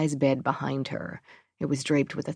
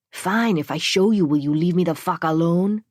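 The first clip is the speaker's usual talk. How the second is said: exasperated; 3 semitones higher, 5 dB louder than usual. Acted. Exasperated super gives in.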